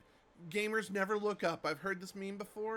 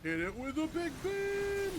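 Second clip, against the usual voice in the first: shouted command; 11 semitones higher, 5 dB louder than usual. Real, not acted. Calling out an attack.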